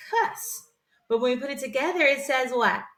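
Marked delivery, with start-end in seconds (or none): 0.1-0.7 CUSS said alone as a short-vowel syllable; syllable sounded out. Shown as a demonstration. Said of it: "but it's gonna say cuss".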